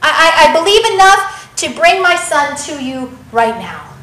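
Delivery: stammering, emotional insistence with halting admissions; desperate plea. Acted. Father bringing his son to Jesus, stammering and desperate. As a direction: plead haltingly, a touch desperate. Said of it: "so much desperation".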